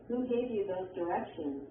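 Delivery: WH question falling on "directions"; falling intonation. Shown as a demonstration. Textbook example of a WH question, falling intonation. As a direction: let the question go down at the end of "directions". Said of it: "arrows that show falling intonation".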